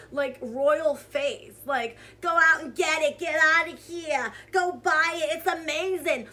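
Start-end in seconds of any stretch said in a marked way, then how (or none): 2.2-6.3 louder, overdramatic product hype. Retold or imitated. Mocking influencer selling a mascara, overdramatic hype. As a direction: push it like a gushing influencer pitch. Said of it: "this whole overdramatic thing about a mascara".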